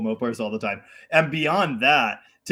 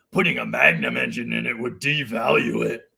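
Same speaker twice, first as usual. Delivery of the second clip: creaky, mocking put-on voice. Mimicking a car commenter's remarks about a Charger: mock commenter voice. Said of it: "I'm doing my commenter voice again".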